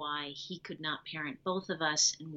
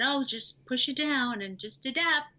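high, bright-sounding pep talk to herself, pitched well up; chirpy "everything's fine" mask over the hurt; lightly hammed-up cheerful self-reassurance, voice way up; forced brave self-talk; 8 semitones higher than usual. Telling herself to hide feelings.

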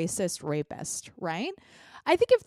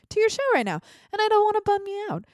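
cooing; 11 semitones higher, faster than usual. Acted. Host cooing to her audience.

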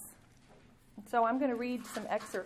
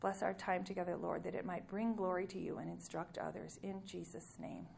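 gentle, unhurried prayer voice; closing prayer. Acted.

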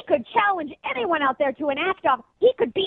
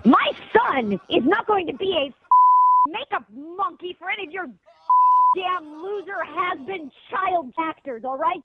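furious slow rant; 5 semitones higher, slower than usual. Real, not acted. Mom furious at prank caller.

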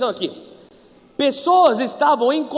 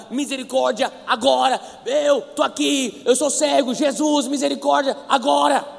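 desperate; 2 semitones higher, 3 dB louder than usual. Retold or imitated. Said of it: "Ele tá desesperado".

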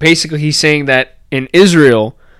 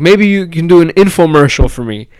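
put-on Israeli accent; 4 semitones higher, 4 dB louder than usual. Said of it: "in an Israeli accent".

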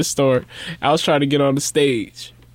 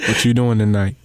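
lower-pitched imitation of a would-be smooth talker; mock seductive come-on; 4 semitones lower than usual. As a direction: tease a friend's sexy inner voice. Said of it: "That's how you said it in your head".

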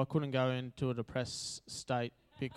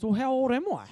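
put-on bewildered child; 10 semitones higher, 6 dB louder than usual. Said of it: "And he goes".

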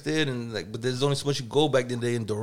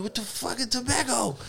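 mock disbelief; 8 semitones higher, 5 dB quieter than usual. Guys baffled by tobacco.

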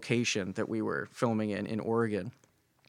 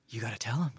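softer, restrained imitation of the producer; grave instruction; 7 dB quieter, much faster than usual. Producer hearing the actor's confession, imitated grave and subdued. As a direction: quietly take in the confession, then instruct.

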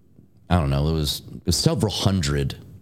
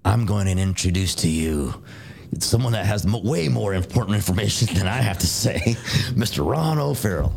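raised-pitch imitation of a hype introduction; fired-up speaker; 4 semitones higher than usual. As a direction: introduce the guest like a fired-up emcee. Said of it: "He talks like this".

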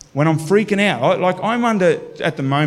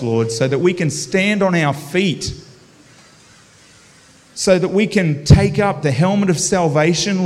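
fervent prayer; 3 semitones higher than usual. Acted. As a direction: pray over the congregation with fervor. Leads a prayer.

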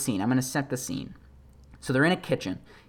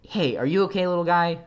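higher, imitated soothing voice; comforting a puppy; 4 semitones higher than usual. Young man stopping to console a frightened puppy, imitated concern. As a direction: check gently on a little animal. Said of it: "went out of his way to stop".

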